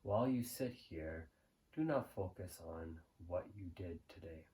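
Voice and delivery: guided meditation. Real, not acted. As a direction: guide the listener gently into the present moment, unhurried.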